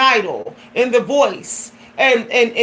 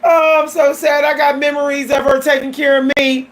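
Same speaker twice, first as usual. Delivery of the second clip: mock crying. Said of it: "y'all gonna sit up here and cry".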